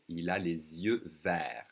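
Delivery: slow, verts ending on the R, "vair"; silent T and S. Shown as a demonstration. Teacher demonstrating silent letters for learners, silent T and S. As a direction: say verts without T or S. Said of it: "We don't hear the T S".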